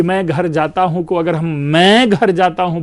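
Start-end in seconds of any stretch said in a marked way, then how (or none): 0.0-1.0 मैं lifted with a rise; stress on मैं. Shown as a demonstration. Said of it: "वाक्य कहता रहा हूं". 1.5-2.8 मैं held long and slow; stress on मैं. Shown as a demonstration. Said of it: "कुछ और अर्थ हो जाता है".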